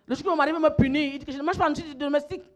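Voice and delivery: rapid, rushed telling of a husband's demand; quick-fire exasperated account; worked-up retelling. Retold or imitated. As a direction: rattle it off with rising heat.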